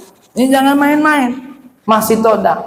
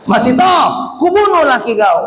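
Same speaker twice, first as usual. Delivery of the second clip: Pharaoh's threat; 4 semitones higher than usual. Acted. Firaun threatens Masyitah again.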